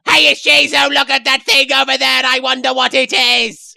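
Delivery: high, loud calling out; loud excited kid. Acted. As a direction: blurt it out far too loud. Loud despite needing quiet.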